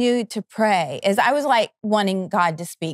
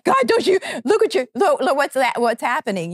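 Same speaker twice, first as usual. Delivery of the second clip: frantic plea; 5 semitones higher, faster than usual. Retold or imitated. Pleading with God, retold.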